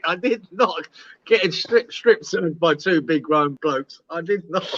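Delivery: slow, deliberate mock-adamant denial; emphatic denial. Storyteller denying he enjoyed the search, slow and emphatic. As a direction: spell out the denial word by word.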